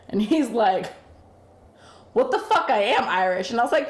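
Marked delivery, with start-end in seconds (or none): 2.1-3.5 mock indignation. Man indignantly answering the claim he's not Irish, mock indignation. Retelling his indignant reply to her accusation.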